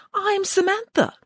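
put-on slow, high girlish protest; drawn-out high girl's voice; insistent girl. A narrator's reading. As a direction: spell out who you are, pleadingly. Unrecognised Samantha insists who she is.

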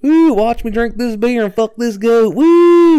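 loud, high hammed-up redneck whoop; redneck country singer. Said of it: "all I hear is".

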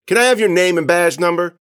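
high, loud challenge; defiant kid. Acted. Filming kid challenging the officer, defiant. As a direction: demand it in a pushy kid voice.

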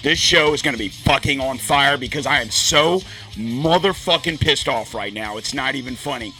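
worked-up, heated rant, hitting the swear words; really pissed off. Real, not acted. Podcaster venting to listeners about a broken computer, pissed off. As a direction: rant like you are losing your mind. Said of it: "As you can hear by the sound of my voice".

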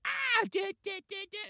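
retold scream. Retelling screams heard in dream.

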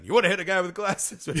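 high, loud jeering Nicholson voice; Nicholson impression. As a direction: sneer it like Nicholson. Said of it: "It's a throwback to Nicholson".

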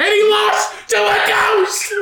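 laughing high and slow through it. Real, not acted. Laughing at his own ridiculous story. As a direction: crack up while telling it.

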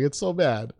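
ordinary talk, nothing marked

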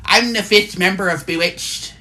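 playful amateur Irish lilt; put-on Irish accent. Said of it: "That's my Irish".

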